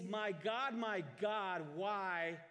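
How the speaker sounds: high, loud calling out; loud cry. A narrator's reading. Jesus cries out to God on the cross, loud high cry. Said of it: "in a loud voice".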